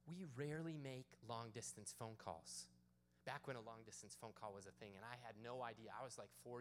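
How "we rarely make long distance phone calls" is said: slow, deliberate weight on "rarely"; firm, measured stress on "rarely"; emphatic stressed words. Retold or imitated. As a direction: lean on "rarely" and space out the phrase. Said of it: "she starts emphasizing different words".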